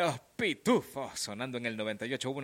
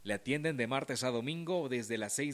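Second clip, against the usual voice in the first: ad read. Acted. Radio sponsor ad read.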